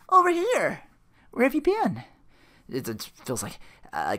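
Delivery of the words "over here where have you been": high, loud imitation call; calling someone over. Rita calling Phil over, high and loud. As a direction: call out with the pitch way up.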